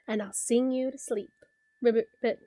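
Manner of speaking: gentle sing-song poem reading; reading to a toddler. A narrator's reading. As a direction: read it like a bedtime poem. Reads frog poem to child.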